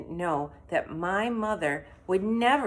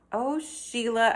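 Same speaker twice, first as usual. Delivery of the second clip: shouted; 7 semitones higher, 3 dB louder, slower than usual. Acted. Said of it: "I shouted".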